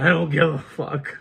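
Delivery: loud, high mock yell; acted-out refusal to calm down; retold defiance. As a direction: throw it out as a defiant quoted shout. Retelling defiant reply to being calmed.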